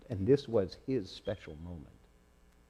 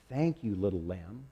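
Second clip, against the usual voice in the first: said softly; 3 semitones lower, 4 dB quieter than usual. Acted. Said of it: "the baby's mother said softly".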